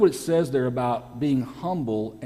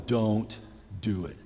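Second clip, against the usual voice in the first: low, hushed plea to stop; quiet warning; 4 semitones lower, 5 dB quieter, slower than usual. Acted. Guys begging the pastor not to speak for ladies, quiet warning. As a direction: imitate the guys, dropping low and soft.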